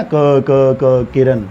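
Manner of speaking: repeating the first sound, slow, stuck; stammering. Shown as a demonstration. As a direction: stutter on क before किरण. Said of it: "यानी हकलाते ना". (हकलाते हुए)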